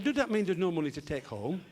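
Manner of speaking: anxious question in comic impeded diction; speech defect, consonants fronted to t and d; Harry. Acted. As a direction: ask it tongue-tied. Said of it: "a slight speech defect".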